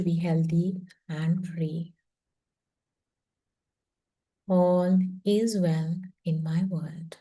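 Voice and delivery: slow affirmation with long pauses between phrases; very slow reading. Shown as a demonstration. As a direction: let each word sink in, meditatively. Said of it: "I'm going to read this very slowly".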